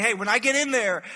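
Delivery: shouted taunt at the wall's defenders; trash talk shout. Retold or imitated. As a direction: yell the threat up at the city. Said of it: "taunting them".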